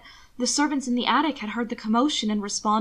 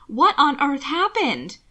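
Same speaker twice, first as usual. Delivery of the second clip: gasped; 5 semitones higher, 5 dB louder, slower than usual. Acted. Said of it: "Jimmy gasped".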